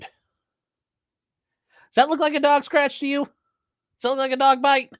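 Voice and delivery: high, slow, disbelieving; incredulous. Real, not acted. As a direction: ask it in plain disbelief. Showing wound, disbelieving dog claim.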